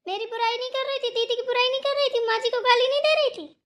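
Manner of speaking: high, insistent accusing run; heated accusation. Acted. Accusing her of badmouthing the family, heated accusation.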